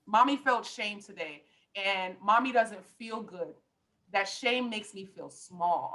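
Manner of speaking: put-on slow, gentle words to a child; gentle talk to kids. Shown as a demonstration. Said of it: "share your emotions and your feelings".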